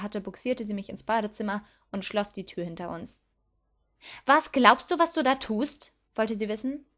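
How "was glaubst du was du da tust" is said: higher, louder, confronting question; angry demand. A narrator's reading. Petunia confronts her sister behind closed doors, angry. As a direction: demand an explanation, incensed.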